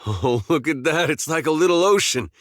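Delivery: high, excited exclamation; delighted wonder. Acted. Pointing out a little ocean to companions, delighted wonder. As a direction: marvel at it, pitch climbing.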